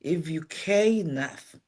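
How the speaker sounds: slow, whispered reassurance; confiding whisper. Real, not acted. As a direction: lean in and whisper it slowly, like a secret. Reassuring the unqualified listener.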